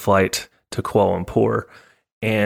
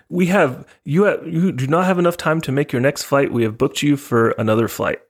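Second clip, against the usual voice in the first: imitated Japanese accent; 5 semitones higher than usual. Airline ladies rebook late passenger, imitated Japanese accent. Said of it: "kinda what they sounded like".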